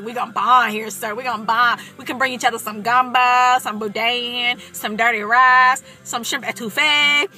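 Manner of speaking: loud, excited Cajun food roll call. Retold or imitated. Applicant bonding with a possible fellow Cajun, excited. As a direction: build the list, drawing out the last dishes. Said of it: "I got really excited".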